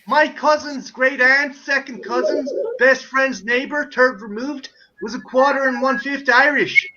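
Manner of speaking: American boasting of Irish roots, deliberate; American tourist accent. Acted. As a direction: list it proudly in an American accent. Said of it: "can I do my favorite one".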